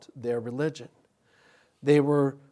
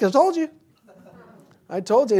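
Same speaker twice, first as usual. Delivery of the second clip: dad told-you-so; 9 semitones higher, 9 dB louder than usual. Retold or imitated. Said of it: "my dad's like".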